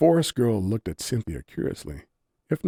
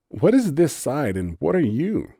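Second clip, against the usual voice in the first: demanding; 8 semitones higher, 5 dB louder than usual. A narrator's reading. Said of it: "Cynthia demanded".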